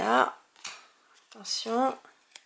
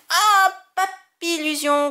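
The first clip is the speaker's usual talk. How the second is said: drawn-out surprise; 6 semitones higher, 7 dB louder, slower than usual. Real, not acted. Pulls a card he already has.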